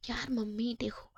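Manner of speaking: soft breathy whisper to mum; sheepish whisper. Acted. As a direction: whisper it like a caught kid. Son caught, answers mother sheepishly. (धीमी फुसफुसाहट में)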